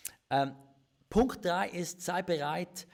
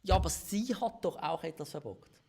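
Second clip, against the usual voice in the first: higher, mildly indignant comeback; defensive retort; 4 semitones higher, 4 dB louder than usual. Retold or imitated. Husband recalls his first reaction to the fight, defensive. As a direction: protest that the other is to blame too. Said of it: "meine erste Reaktion war".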